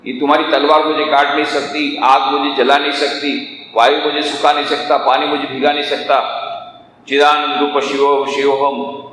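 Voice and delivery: steady, unvarying proclamation; recited declaration. Acted. Yogi answering Alexander's sword, steady monotone declaration. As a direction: declare it evenly, like a creed.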